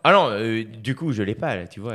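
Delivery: reluctant, half-hearted attempt at a Parisian French accent; French-from-France accent. Shown as a demonstration. Quebec comedian asked to show his accent, tentative French-from-France accent. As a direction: try a France French accent while protesting. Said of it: "fais l'accent français pour voir".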